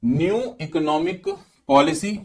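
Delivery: "New economic policy" sung out high for the class to repeat; drilling the term. Shown as a demonstration. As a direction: raise the pitch to prompt a class answer. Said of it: "क्या बोला?". (कक्षा से दोहरवाने को ऊँची आवाज़ में)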